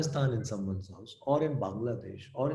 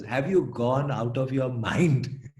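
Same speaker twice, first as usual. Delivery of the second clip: slow, louder exasperated mother; 5 dB louder, slower than usual. Retold or imitated. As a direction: ask like a worried parent losing patience. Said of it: "the third question she said".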